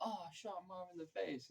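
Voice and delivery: a hint of casual shrug, high and airy; offhand. Vincent after shooting Marvin, lightly voiced offhand. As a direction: toss it off like a stepped-on toe. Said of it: "He says it like he just stepped on his toe".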